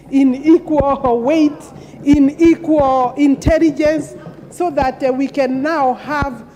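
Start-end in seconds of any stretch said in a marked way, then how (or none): 0.1-4.1 emphatic. Real, not acted. Rousing plea for women's equality.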